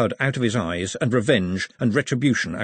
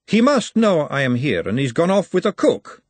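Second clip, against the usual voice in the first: lightly voiced aristocratic lady, piqued; a hint of a lady's jealous pique; Lady Margalotta voice; 7 semitones higher, 5 dB louder than usual. A narrator's reading.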